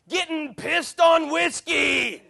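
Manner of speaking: put-on high, loud, slow drunken yell with a laugh; drunken scream. Drunk woman toasting in a pub, screaming with laughter. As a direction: bellow it like a sloppy drunk raising a glass. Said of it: "raised her glass very sloppily and screamed".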